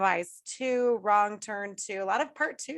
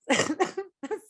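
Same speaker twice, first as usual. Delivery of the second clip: smoker's laugh; 9 semitones higher than usual. Real, not acted. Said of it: "I sound like a smoker".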